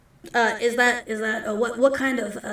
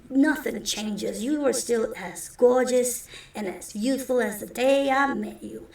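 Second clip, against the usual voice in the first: smooth talker; 4 dB louder than usual. Acted. Ira flattering the diner cook, lightly smooth. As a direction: lay on the charm lightly.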